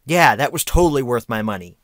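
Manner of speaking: loud, sarcastic agreement; sarcastic approval. Real, not acted. Reviewer griping about a full-screen DVD, sarcastic. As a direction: say it emphatically, meaning the opposite. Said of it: "No, it was not. I'm kidding".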